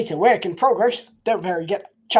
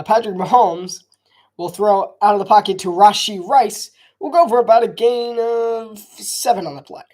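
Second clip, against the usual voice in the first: sportscaster call, a bit louder; live play-by-play; 4 semitones higher, 6 dB louder than usual. Acted. Streamer calling his own run play, lively broadcaster. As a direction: call the handoff like a TV announcer.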